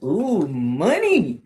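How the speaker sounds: slow, high mock-tempted ooh and gasp. Teacher pretending the money offer tempts her.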